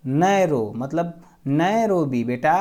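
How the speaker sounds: slow, drawn-out consoling words; consoling family. Acted. Family tells the crying bride not to cry, lightly consoling. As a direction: lightly act a relative soothing a child. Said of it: "घर वाले उसको समझा रहे हैं".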